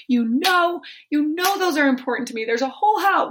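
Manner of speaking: imitating her old sharp self, quickly. Mother voicing her younger sharp self to daughter, mock scolding. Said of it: "I would have been sharp".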